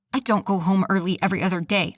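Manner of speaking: fast, spat-out denial. Acted. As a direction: snap it back quickly. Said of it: "I spat".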